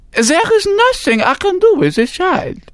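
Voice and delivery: high, hammed-up French accent; French doctor. A narrator's reading. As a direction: play a pompous French doctor. Paris doctor verdict.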